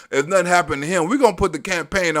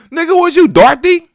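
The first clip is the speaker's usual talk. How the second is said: laughing mock question; 10 semitones higher, 6 dB louder than usual. Real, not acted. Mocking laugh shout.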